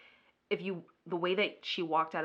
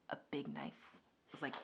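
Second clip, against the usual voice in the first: hushed whisper; 4 semitones lower, 12 dB quieter, faster than usual. Retold or imitated. Suspense in retelling.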